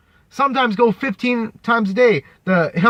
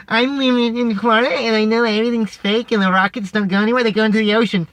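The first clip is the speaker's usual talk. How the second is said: mocking a conspiracy believer; faster than usual. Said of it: "Church is scared".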